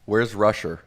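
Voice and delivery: teasing imitation of a Brooklyn accent. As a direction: mimic Dad's Brooklyn accent playfully. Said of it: "making fun of my Brooklyn accent".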